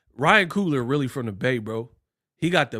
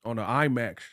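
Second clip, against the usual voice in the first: Coogler voice; 5 semitones lower, 6 dB quieter, faster than usual. Retold or imitated. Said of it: "He's like".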